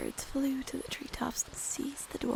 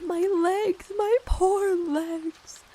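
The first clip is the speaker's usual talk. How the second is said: louder, drawn-out groan of pain; groaning complaint; 6 semitones higher, 10 dB louder, much slower than usual. Acted. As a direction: stretch the words out in a pained groan. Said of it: "And Dory groaned".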